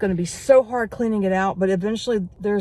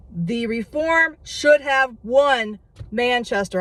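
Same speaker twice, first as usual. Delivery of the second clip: worked up; 4 semitones higher, slower than usual. Real, not acted. Vlogger to viewers repeating the loss, worked-up insistence. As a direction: repeat it again, heated and insistent. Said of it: "I'm getting worked up".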